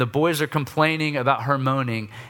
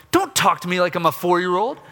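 sarcastic loving response; 4 semitones higher than usual. Retold or imitated. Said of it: "the loving response of".

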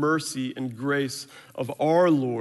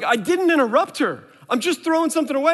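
put-on higher, louder defensive kid; a boy shouting back that he did nothing wrong; son's protest, retold; 12 semitones higher, 6 dB louder, faster than usual. Son talking back to his dad, loud and defensive.

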